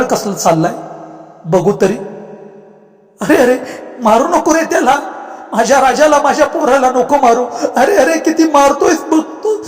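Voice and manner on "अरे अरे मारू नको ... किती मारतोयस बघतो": higher, urgent pleading cries; father shouting to spare his son. Acted. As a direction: yell to stop the beating. Father sees his son beaten.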